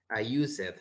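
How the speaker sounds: USED said as two syllables, "use-ed"; learner's mispronunciation. Retold or imitated. Teacher quoting a student's common error, "used" mispronounced as "use-ed". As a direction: sound out the -ed in "used" as its own syllable. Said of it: "Yo escuché que, eh, él dijo".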